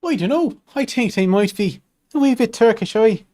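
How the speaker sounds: put-on playful Irish accent, high. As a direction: lilt it Irish with aye. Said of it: "Irish accent".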